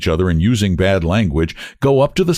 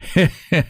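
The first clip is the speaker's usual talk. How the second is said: grinning laugh; 9 semitones higher than usual. A narrator's reading. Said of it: "grins Iona".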